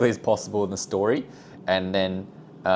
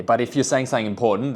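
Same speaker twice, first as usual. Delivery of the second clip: louder for importance; 3 semitones higher, 4 dB louder, faster than usual. Shown as a demonstration. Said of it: "you want them to perk up their ears".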